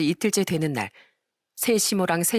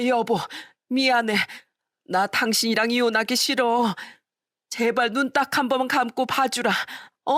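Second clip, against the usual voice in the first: higher, whining plea to husband; pleading wife; 5 semitones higher than usual. Acted. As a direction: beg husband not to divorce.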